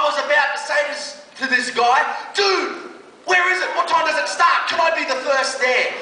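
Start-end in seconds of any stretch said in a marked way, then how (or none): 2.3-5.9 much higher, gushing questions; teen suddenly desperate to join, comic eagerness. Retold or imitated. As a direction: flip to wide-eyed keen.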